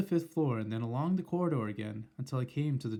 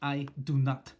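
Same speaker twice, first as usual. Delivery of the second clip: shouted; 4 dB louder than usual. Acted. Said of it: "shouted the Grand High Witch".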